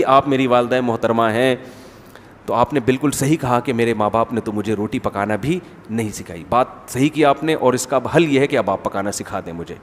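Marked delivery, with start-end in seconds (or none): 0.0-6.4 polite reply. Pretend. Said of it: "तमीज़ से नहीं कहेगी".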